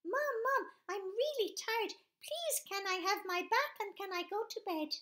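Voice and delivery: put-on baby telling mum he's tired. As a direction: ask like a worn-out toddler. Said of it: "the baby said to the mum".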